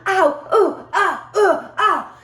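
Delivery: high, pained cries of the trees, voiced high; screaming trees. Wife voicing the mangled trees' squeals, high pained cries. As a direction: squeal like branches in pain. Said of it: "They're screaming at me".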